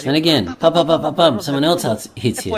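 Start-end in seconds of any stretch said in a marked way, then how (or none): 0.6-1.4 quick volley of punch noises; pum-pum-pum hitting noise; imitated beating. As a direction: rattle off the blows as pums. Acting out being hit again.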